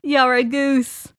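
high, loud fake laugh in a put-on voice; bad impression of a friend's written laughter. Reading co-host's reply to him, mock impression. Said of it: "And he said".

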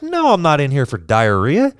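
mock outrage at the mix-up; exasperated yell. Patient yelling at the doctor about the wrong diagnosis, exasperated.

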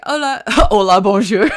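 high, loud greeting with a laugh in it; laughing greeting impression. Counter man greets customers walking in, exuberant mock greeting. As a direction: call out an exuberant, hammed-up hello.

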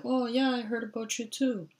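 very high-pitched, bewildered imitation; put-on high voice, politely baffled; confused grandfather. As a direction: play a confused old man going along with it. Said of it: "my grandfather was very confused".

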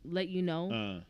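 soft, low, easy flattery; smooth compliment. Retold or imitated. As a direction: lay the compliment on quietly and smoothly. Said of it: "She's smooth".

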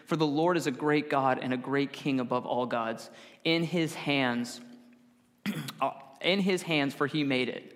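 measured, solemn reading of a psalm; lifted scripture-reading voice. Acted. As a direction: read the psalm aloud to the congregation. Reads Psalm 95 aloud.

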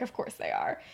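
low, breath-heavy sighed reply; sighing. Retold or imitated. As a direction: let it out on a weary sigh. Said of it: "McGonagall just sighs".

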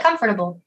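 "comfortable" in four syllables, COM-fer-ta-ble; pronounced as spelled. Shown as a demonstration. Defending how she says comfortable, pronounced as spelled. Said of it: "That's how you spell it".

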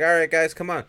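high, loud imitated call. Guy calling his crew to the truck, calling out. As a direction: holler as if rounding up workers.

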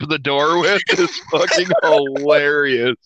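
shout. Real, not acted. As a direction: shout the punchline. Laughing rave about scene.

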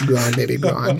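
put-on working-class Boston movie accent. Ribbing a co-host who hates it, Boston accent. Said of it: "The Boston one's my favorite one".

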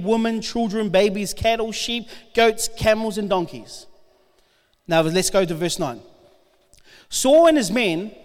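steady, earnest Bible reading to the congregation; scripture reading. Acted. Preacher reading First Samuel to the congregation, earnest. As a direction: read it out like the passage matters. Reads Bible passage aloud.

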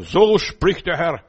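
slow, loud, commanding; announcing God's word with power; authoritative proclamation. Shown as a demonstration. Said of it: "und dann kannst du sagen".

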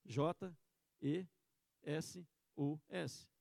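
each letter spelled slowly and apart. Shown as a demonstration. Man at heaven's gate spelling the name, slow. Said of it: "Ele soletrou".

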